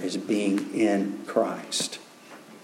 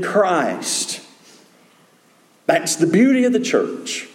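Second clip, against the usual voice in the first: emphatic preaching; 6 semitones higher than usual. Real, not acted. Preaches on church unity.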